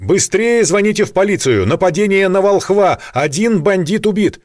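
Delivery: loud and high, urgent; urgent shout. A narrator's reading. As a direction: yell for help down the hall. Николай кричит уборщице вызвать полицию. (срочный громкий крик)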